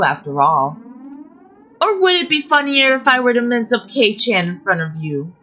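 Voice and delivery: savoring the threat; menacing threat. Acted. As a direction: sister threatens the captive cruelly. Sister threatens captive.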